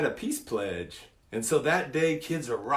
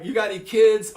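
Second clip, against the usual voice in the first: eager question; 8 semitones higher, 8 dB louder than usual. Retold or imitated. Excited questioning.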